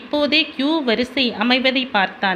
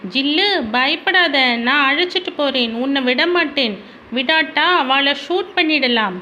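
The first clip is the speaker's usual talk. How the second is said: put-on reassuring child; 3 semitones higher than usual.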